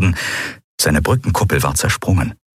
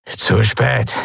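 mit fremder Stimme höhnisch gesagt, spät betont; hämisch grinsend; 3 semitones higher than usual. Acted. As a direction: sag es mit hässlichem Grinsen. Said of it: "zeigte ein hässliches Grinsen". (Draxyl verhöhnt den Admiral mit einem Grinsen)

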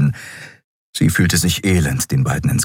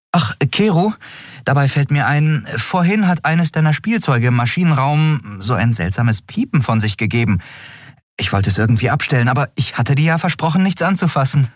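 higher, quick, faux-innocent voice; teasing captain; 8 semitones higher than usual. A narrator's reading. Andriel teases Keru about his beeping toy, fast. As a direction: rattle it off with mock innocence.

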